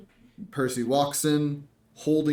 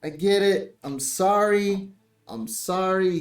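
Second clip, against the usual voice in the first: higher, louder yelping apology after a bonk; pained apology; 7 semitones higher, 4 dB louder than usual. Acted. A bard bonked on the head by Percy, yelping and apologizing. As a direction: yelp out sorry while rubbing the sore head.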